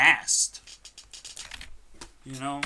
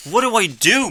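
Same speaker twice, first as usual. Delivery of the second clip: exasperated cry; 6 semitones higher, 10 dB louder than usual. Real, not acted. Frustrated rant cry.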